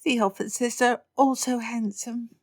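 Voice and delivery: put-on high dreamy girl voice; girlish swoon. Lydia gushes to her family, high and dreamy. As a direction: sigh it like a smitten girl.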